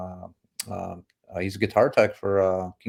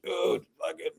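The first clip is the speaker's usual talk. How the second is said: high-pitched, drawn-out mock amazement; entusiasmo imitato; 10 semitones higher, slower than usual. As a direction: imitate thrilled tourists, pitched way up. Bandmates marvelling at cheap beer.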